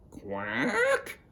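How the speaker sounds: "Quack" drawn out with a rising tune; questioning quack. Acted. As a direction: stretch "Quack" softly upward like a question. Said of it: "it's a questioning quack".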